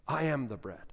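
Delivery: an echoing, hushed I am the bread. Shown as a demonstration. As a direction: let the repeat fall quiet. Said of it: "repeats the claim".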